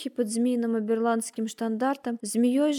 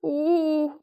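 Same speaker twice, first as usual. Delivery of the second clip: soft howl; 4 semitones higher than usual. A narrator's reading. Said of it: "тихонько подвывал".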